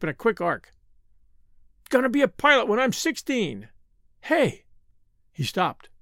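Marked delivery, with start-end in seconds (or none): 1.9-4.6 put-on high, boastful child; boy bursting with enthusiasm; excited little boy. A narrator's reading. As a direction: announce it in a raised, eager kid voice. Excited son playing rocket.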